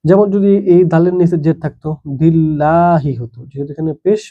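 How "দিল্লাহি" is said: "দিল্লাহি" with an open "dil-LAA-hi"; light "la". Shown as a demonstration. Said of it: "জের থাকলে লা হবে".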